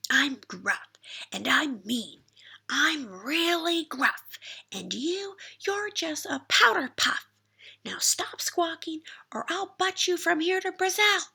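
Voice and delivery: high, loud sneering bully goat; mock laugh then taunt him hard; bully goat taunting Little Ogre, loud and high. A narrator's reading.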